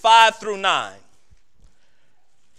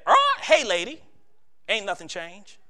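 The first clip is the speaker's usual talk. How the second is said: parrot voice. Acted. Parrot's punchline in the joke.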